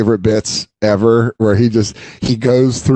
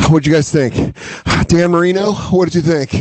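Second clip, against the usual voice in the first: winded, panting questions; breathless after the effort; out of breath; 5 semitones higher than usual. Retold or imitated. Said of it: "just out of breath going like".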